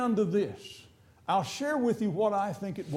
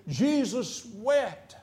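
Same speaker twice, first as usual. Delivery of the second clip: slow solemn verse; 2 semitones higher, much slower than usual. Shown as a demonstration. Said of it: "but in this situation".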